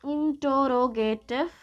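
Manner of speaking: whispered, slow; hushed, drawn out "interrogative"; whispered word. Shown as a demonstration. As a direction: breathe the word "interrogative" slowly. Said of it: "whispered term before repeat".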